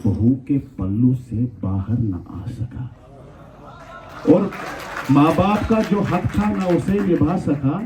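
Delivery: declaimed verse with measured pauses; poetry recitation. Acted. Host recites a verse to the gathering, poetry recitation. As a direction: recite the couplet in drawn-out phrases for an audience.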